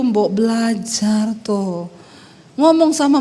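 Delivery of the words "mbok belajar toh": slow, soft, low urging; husband's gentle Javanese. Retold or imitated. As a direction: gently coax like the Solo husband. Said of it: "dia mintanya gitu". (bujukan suami logat Jawa, pelan dan lembut)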